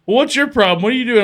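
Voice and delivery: high, loud baffled coworker; high whiny coworker. Retold or imitated. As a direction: play the clueless partner. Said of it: "and he just like".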